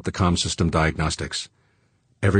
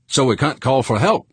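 higher, worried query; alarmed question; 8 semitones higher, 4 dB louder than usual. A narrator's reading. Crewman realising help can't be called, alarmed. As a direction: ask it in rising alarm.

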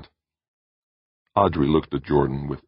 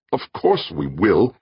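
snapped; 4 semitones higher, 4 dB louder, slower than usual. Acted. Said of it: "Jordan snapped".

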